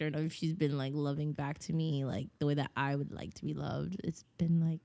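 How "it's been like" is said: whispered aside. Real, not acted. Confiding aside.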